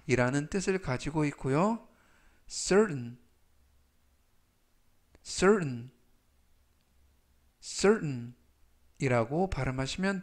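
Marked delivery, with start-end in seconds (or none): 2.5-8.3 section said slowly and clearly; slow model pronunciation. Shown as a demonstration. Teacher reading vocabulary aloud for review, slow and clear. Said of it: "제가 천천히 세 번씩 읽어드리고요".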